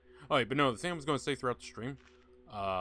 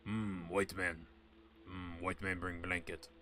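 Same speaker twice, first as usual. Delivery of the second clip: slow, low stereotyped Native American chief voice; hammed-up Native American elder intoning slowly; a streamer mocking a Native American chief, slow and low; 4 semitones lower, 5 dB quieter, slower than usual. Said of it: "What does an Indian sound like?".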